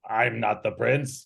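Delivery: mildly puzzled echo in character; confused. Acted. Old Arthas echoes the captive's denial, mildly confused. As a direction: repeat it back, a touch confused. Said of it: "looks confused and he's like".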